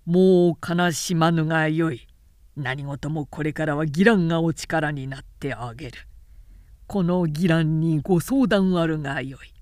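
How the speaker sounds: smug general talking down to the widow; patronizing villain. Acted. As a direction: lay on the false kindness. Ginran courts the widow.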